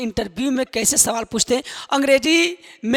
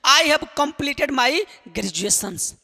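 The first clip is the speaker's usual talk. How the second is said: I have completed my graduations spelled out very slowly; very slow model sentence; much slower than usual. Shown as a demonstration. Teacher translating graduation sentence for students, very slow. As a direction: say each word separately. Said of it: "मैंने अपनी graduation पूरी की है".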